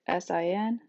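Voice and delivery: "S I N" letter by letter; spelled out. Shown as a demonstration. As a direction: say "S I N" as three letter names. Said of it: "which we write as".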